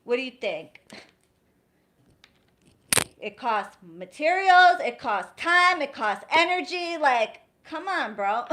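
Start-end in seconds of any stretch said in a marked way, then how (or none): 3.2-8.5 louder, rising frustration listing costs; fed-up rant. Real, not acted. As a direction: rant at freeloading clients. Ranting about costs of work.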